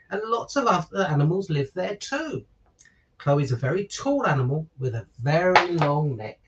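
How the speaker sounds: put-on bright, lilting picture-book narration for children; story reading. A narrator's reading. Father reading a giraffe story to listeners, lilting storybook narration. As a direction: read it like bedtime story time for little ones.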